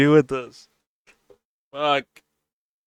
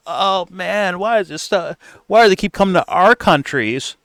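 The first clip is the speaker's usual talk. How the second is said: mocking clueless lady; 5 semitones higher than usual.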